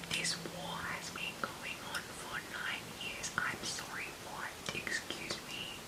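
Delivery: hushed whisper throughout. Real, not acted. Reading her book in the night, whispering. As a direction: whisper so no one wakes.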